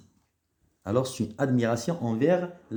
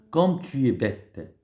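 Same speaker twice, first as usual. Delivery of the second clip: slow, louder exclamation; exclamative; 4 dB louder, slower than usual. Shown as a demonstration. Teacher demonstrating an exclamation to pupils. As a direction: stretch it out like an exasperated exclamation. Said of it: "Voilà quelques exemples".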